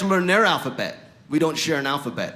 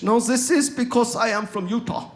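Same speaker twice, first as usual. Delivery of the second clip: higher-pitched put-on German accent; 7 semitones higher than usual. Fake foreigner revealing he is from Utah, mock German accent. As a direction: answer in a comic German accent. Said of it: "I use my accent".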